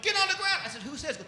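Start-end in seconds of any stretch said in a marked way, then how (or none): 0.0-0.6 high, very loud shouted order; hammed-up barked command; police command. Cop repeats the order. 0.8-1.2 high, soft little question; mock-cowed query; meek challenge. Comic meekly questions cop.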